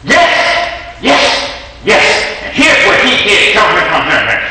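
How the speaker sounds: high, eager, rushed voice; wife eagerly listing grievances, high-pitched; excited wife. Retold or imitated. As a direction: pile it on like a wife with a complaint ready. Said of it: "and she's like".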